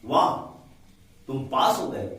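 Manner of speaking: वाह bright and pleased, with a glad tone on पास; real joy at good news; delighted wow. Shown as a demonstration. Teacher demoing a glad exclamation for students. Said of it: "वाह मतलब एक आश्चर्य चकित होता है".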